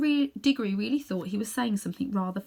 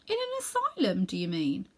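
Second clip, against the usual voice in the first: put-on shocked boy.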